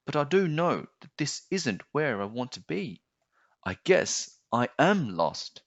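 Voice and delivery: put-on child voice, pitched high and hesitant; young boy. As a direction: sound like a puzzled small boy. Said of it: "said the boy".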